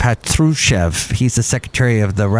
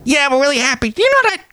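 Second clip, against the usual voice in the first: cartoon squeak voice; squeaky little character asking; high squeaky character; faster than usual.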